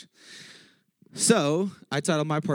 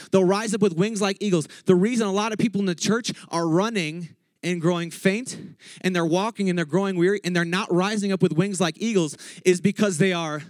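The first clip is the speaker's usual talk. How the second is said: higher-pitched, driving sermon delivery; fired-up preaching; 3 semitones higher than usual. Real, not acted. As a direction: preach it out to the congregation. Preaches at full force.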